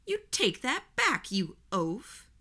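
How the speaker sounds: high, loud hammed-up indignation; teasing Gordon after a mock gasp, high hammed-up outrage. A narrator's reading. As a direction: pretend to be deeply offended. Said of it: "I mock gasped".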